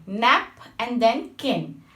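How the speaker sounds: "nap and then kin" said slowly, each syllable set apart; split into syllables. Shown as a demonstration. Teacher showing students the two syllables, slow and separated. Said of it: "In bisyllabic".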